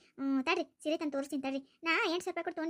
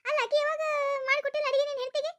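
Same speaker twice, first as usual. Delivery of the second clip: loud, high, indignant telling-off; angry scolding; 9 semitones higher, 4 dB louder than usual. Acted. Mother scolding her son for siding with his wife, loud indignant. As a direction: scold him hard, indignant.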